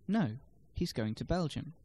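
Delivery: a separate "No", then weight on "Belgium"; correcting stress. Shown as a demonstration. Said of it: "can place the stress on different words".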